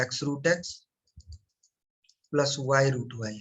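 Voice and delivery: very slow, word by word, as if writing it down; slow dictation. Shown as a demonstration. Teacher dictating to students while writing, very slow. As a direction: spell it out slowly for students copying.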